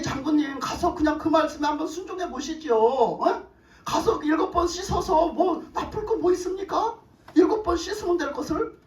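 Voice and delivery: lightly voiced coaxing of a superior, pitch lifting as it goes; concerned pleading. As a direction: plead gently as a loyal subordinate. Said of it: "너무 안타까운 마음에 얘기했어".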